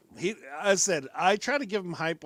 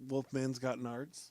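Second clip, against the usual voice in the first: movie quote; 4 semitones lower, 6 dB quieter, slower than usual. Retold or imitated. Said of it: "a great line from the movie".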